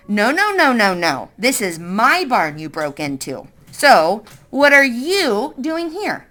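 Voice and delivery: a hint of a tough farm woman; lightly voiced stern woman; gruff woman. Woman character voice.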